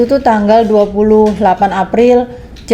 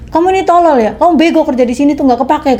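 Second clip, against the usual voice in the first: higher-pitched mock scolding of the maid; retold angry scolding; 4 semitones higher, faster than usual. Employer berating her maid, imitated higher and sharper. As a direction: replay the boss's insults, pitch raised.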